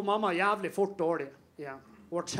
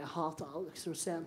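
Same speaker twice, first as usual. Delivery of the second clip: much softer, lower mumble; mumbled; 4 semitones lower, 10 dB quieter than usual. Retold or imitated. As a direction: mumble it half asleep. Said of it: "mumlet bare".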